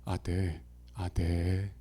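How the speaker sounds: low soft reluctant "아, 네"; grudging yes when you don't want to; unwilling Chungcheong agreement. Retold or imitated. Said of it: "싫어도".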